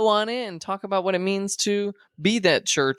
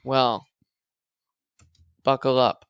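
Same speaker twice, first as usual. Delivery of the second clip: announcer voice; 5 semitones higher than usual. Pretend. Host hypes up the finale for listeners, announcer voice. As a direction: tease the big finale like an announcer. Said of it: "with my announcer voice".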